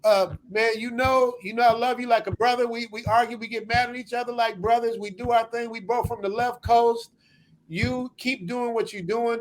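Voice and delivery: put-on nasal voice; hyper nasal voice. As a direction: talk it through the nose. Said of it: "let me do nasal Matt".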